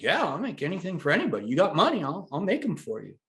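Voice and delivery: imitating the maker. Voicing Joe agreeing eagerly.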